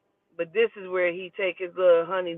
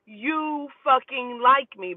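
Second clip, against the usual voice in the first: teasing; 6 semitones higher, 4 dB louder, slower than usual. Retold or imitated. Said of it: "I'm like".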